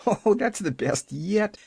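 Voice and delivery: put-on high, chuckling little-girl delight; crowing. A narrator's reading. Pollyanna amused by the centipede remark, crowing. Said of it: "she crowed".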